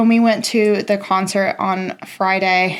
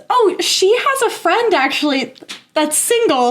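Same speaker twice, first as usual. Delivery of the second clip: imitating Sarah; 8 semitones higher than usual. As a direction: play the eager matchmaking friend, pitched up. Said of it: "Sarah goes".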